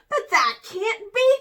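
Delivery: high, loud disbelief; astonished cry. A narrator's reading. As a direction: gasp out disbelief. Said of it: "cried Hamster".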